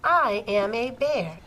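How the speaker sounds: slow, measured read-aloud as a bear; changed character voice. Shown as a demonstration. Teacher models quoted speech for pupils, slow character voice. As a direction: draw out each word as the storybook bear. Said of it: "how my voice changes".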